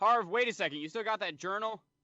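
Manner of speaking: loud calling out. In a role-play scene, calling out to Harv, yelling. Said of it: "and yell into Harv".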